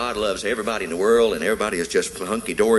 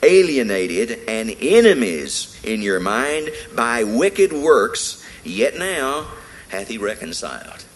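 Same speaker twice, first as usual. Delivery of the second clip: scripture reading. Real, not acted. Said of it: "he says".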